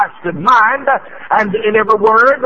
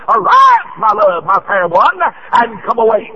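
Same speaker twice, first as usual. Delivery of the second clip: shouted call; 3 semitones higher than usual. Real, not acted. Preacher to church, crying out the call to arise. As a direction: ring out the summons.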